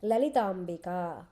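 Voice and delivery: Lalitambika said slowly, syllable by syllable; teacher modelling Lalitambika slowly; slow model word. Shown as a demonstration. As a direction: spell out Lalitambika slowly for the class to repeat. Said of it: "say that, Sri Ramo".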